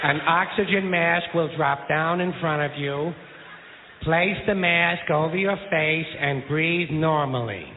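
slow, mock flight attendant drone. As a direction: recite it like a cabin safety spiel. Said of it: "In the unlikely event".

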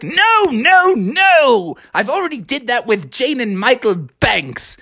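high, prim nanny refusal; Mary Poppins. Acted. Nanny refusing to fly kites, high and prim. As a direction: trill the refusal primly.

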